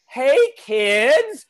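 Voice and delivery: put-on high, bursting greeting to the kids; excited call. Dad in wig and lipstick bursting in on his kids, high playful call. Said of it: "and I'm like".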